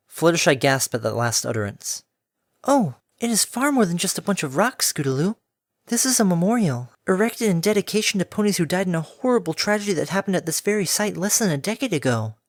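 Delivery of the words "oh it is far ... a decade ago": gentle pegasus explaining; gentle mare voice. Acted.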